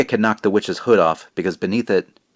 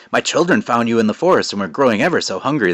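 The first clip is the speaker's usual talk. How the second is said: a hint of a raspy witch, slightly higher; creepy witch voice; 3 semitones higher, 4 dB louder than usual. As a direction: purr it like a hungry old witch. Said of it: "I guess I'm doing some voice".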